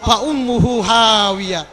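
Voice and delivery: low, loud proclamation of the verse; declaimed verse. Acted. Preacher warning the congregation, low loud declaration. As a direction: boom out the verdict.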